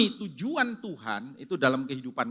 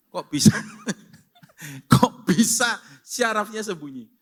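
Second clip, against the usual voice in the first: mock astonishment; 5 semitones higher, 7 dB louder than usual. Amazed hammed-up retelling.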